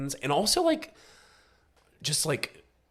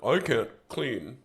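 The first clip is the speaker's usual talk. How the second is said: whiny Gia voice; slower than usual. Retold or imitated. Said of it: "Gia's like".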